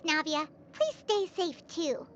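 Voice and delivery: gentle worried goodbye; hushed, caring send-off; soft farewell. Acted. Parting words before danger.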